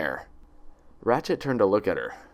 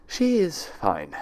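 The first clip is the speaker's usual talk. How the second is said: slow and measured; slow, deliberate reassurance; careful; 8 semitones higher, much slower than usual. Acted. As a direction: choose each word slowly and carefully. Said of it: "said carefully".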